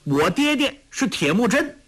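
put-on high, proud child's voice; a small boy puffing himself up; lifted high with pride. A narrator's reading. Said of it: "托雷傲然说".

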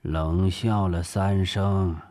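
slow, weighty report; deliberate. Acted. Director telling his officer the leader's reaction, deliberately. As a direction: draw the words out slowly.

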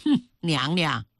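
short scornful snort, then address; cold sneer. Acted. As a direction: open with a contemptuous little huff. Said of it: "吕媪冷笑一声".

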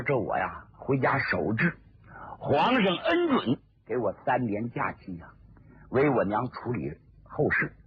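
a hint of a composed Zeng Guofan. Zeng Guofan explains his leave.

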